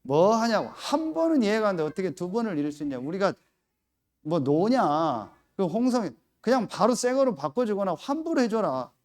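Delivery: mock angry call demanding a refund; angry phone rant. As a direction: scold them over the phone. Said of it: "전화기에다 내가 뭐라고 했어요".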